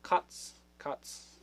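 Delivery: Katz whispered as KUTS, no voice; breathy test of Katz; whispered sounding out. Shown as a demonstration. Trying the German word for cat, Katz whispered. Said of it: "but Katz".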